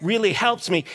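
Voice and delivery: mildly acted grateful amazement; hushed first, then lifting in pitch; amazed thanks. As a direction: act out a touch of stunned gratitude. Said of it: "he's, like, amazed".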